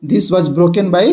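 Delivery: very slow, each word spaced out; slow classroom dictation. Shown as a demonstration. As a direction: dictate the rule slowly to the class. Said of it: "teacher reads example aloud".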